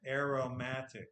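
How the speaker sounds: AROMATIC with the stress on MA; careful model pronunciation. Shown as a demonstration. Teacher models the word after the slowed playback, careful pronunciation. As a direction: say aromatic clearly, stressing the third syllable. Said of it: "how do I pronounce this".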